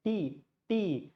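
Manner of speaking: "tea" with a Tamil retroflex t; Tamil accent. Shown as a demonstration. Teacher showing how Tamil Nadu people speak, Tamil accent. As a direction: say "tea" the Tamil Nadu way, tongue curled back. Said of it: "That's how a Tamil guy speak".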